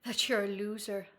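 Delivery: lightly attempted, bad Irish accent; clumsy mock-Irish lilt; terrible Irish accent. Shown as a demonstration. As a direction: have a rough go at an Irish accent. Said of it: "that's my terrible Irish accent".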